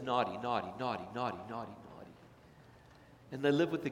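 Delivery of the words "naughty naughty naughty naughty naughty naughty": soft, fading taunting voice of guilt; the cloud over their lives murmurs; accusing whisper of guilt. Retold or imitated. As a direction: let it sink lower and quieter each time. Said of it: "a cloud over their lives that says".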